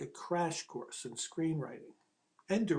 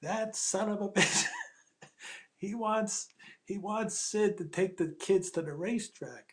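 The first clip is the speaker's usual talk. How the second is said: laughing, pitched-up indignant rant; indignant outburst; 5 semitones higher than usual. Retold or imitated. Arthur Penn on the phone to the writer, fuming and raised. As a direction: vent at Pesci's demand, pitch up. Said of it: "All of a sudden he goes".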